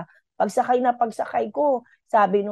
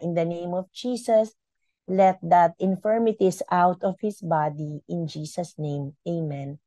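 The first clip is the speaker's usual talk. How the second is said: calm prayer; 3 semitones lower than usual. Shown as a demonstration.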